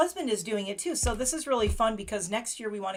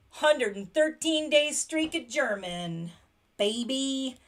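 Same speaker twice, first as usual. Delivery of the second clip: proud gasp, then slow, louder brag; gasping celebration; 4 semitones higher, 4 dB louder, slower than usual. Real, not acted. Celebrating her German streak to her viewers, gasping and proud. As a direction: gasp and savour the streak count.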